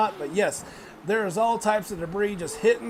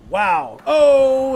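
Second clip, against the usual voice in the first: excited gasp; 4 semitones higher, 9 dB louder than usual. Real, not acted. Reaction to big move.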